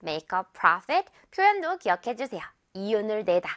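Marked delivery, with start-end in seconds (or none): 0.0-1.1 very slow, stress on not; slow model sentence. Shown as a demonstration. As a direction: spell out the sentence slowly. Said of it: "아 발음 기억하면서요".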